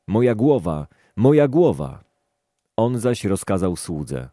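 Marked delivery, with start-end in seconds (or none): 0.1-2.0 rising cry of pain, louder on the second; a sick boy calling out to his father, growing louder. Acted. Boy crying to his father about his head, building to a louder pained cry.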